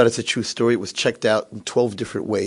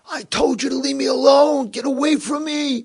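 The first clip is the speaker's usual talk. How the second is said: high-pitched cranky outburst, slowing at the end; angry rebuff. Retold or imitated. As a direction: push him away as a miserable old man. Cranky man rebuffs his roommate.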